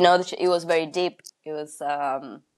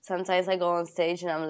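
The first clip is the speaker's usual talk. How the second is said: normal talking voice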